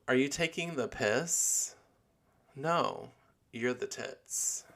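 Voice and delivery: put-on British accent. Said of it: "that's British speak".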